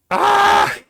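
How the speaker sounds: loud, high disgusted scream. Real, not acted. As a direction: shriek at the gross image. Reacting to gross image.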